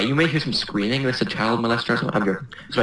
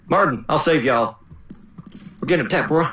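mock Texas twang, slightly raised pitch; Texas accent; 4 semitones higher than usual. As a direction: play a Texan coming to the rescue. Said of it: "You went all Texas on me".

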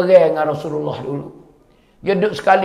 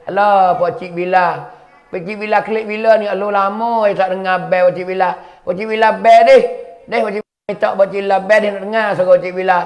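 put-on coaxing, slightly raised child's plea; lightly voiced pleading child; 3 semitones higher than usual. Two boys coax Uncle Bilal for azan, lightly acted pleading. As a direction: wheedle like a child begging an uncle.

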